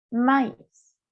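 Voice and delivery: "Maíz" with the I pronounced as its own vowel; diaeresis vowel sounded. Shown as a demonstration. Teacher shows the diaeresis rule, "Maíz" with A and I separate. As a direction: split "Maíz" into ma-ees. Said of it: "se la debe pronunciar tal cual la vocal".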